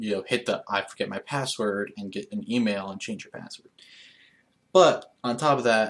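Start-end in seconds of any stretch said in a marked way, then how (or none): none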